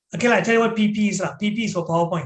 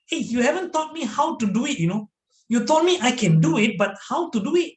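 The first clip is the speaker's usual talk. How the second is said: higher, complaining participant's voice; frustrated participant; 4 semitones higher than usual. Retold or imitated. Participant complaining to the entertainer trainer, mildly indignant. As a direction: protest to the trainer, mock annoyed.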